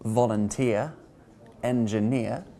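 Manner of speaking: Volunteer and engineer stressed on the final eer; stressed ending. Shown as a demonstration. Teacher showing the eer ending, stress on eer. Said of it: "which you generally stress".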